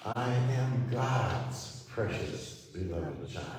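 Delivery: "God's" held long and strong; slow build onto "God's", dropping away after it; stress on GOD'S. Shown as a demonstration. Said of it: "as we emphasize each word".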